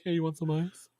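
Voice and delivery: mock a possessed man offering ice; lightly voiced demon offering ice; possessed ice guy. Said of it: "he has to talk like".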